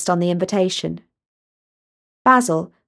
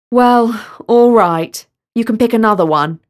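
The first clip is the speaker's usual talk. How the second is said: kindly; 4 dB louder than usual. Acted. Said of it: "Basil said kindly".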